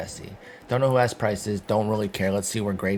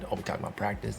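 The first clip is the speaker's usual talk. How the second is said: Allen Iverson; 2 semitones lower, 8 dB quieter, much faster than usual. Retold or imitated. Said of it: "You do the Allen Iverson voice".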